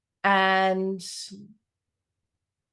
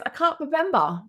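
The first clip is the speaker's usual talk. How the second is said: put-on high little-kid voice; six-year-old daughter; 8 semitones higher than usual. Daughter answering mum about the boat, high child voice. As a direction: imitate a puzzled small child, pitched up. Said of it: "she goes".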